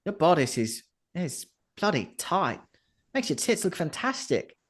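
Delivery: lightly voiced bawdy harlot; Vera Hale. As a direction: coo it playfully.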